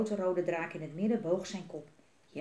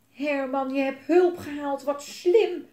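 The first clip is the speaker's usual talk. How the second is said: loud, high excited exclaiming; delighted praise; 6 semitones higher, 9 dB louder, slower than usual. A narrator's reading. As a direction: gush proudly, building to the last word. Delighted reunion with the dragon.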